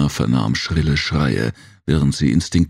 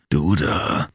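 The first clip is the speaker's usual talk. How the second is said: growling. Acted. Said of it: "knurrte er die Tenki-G an".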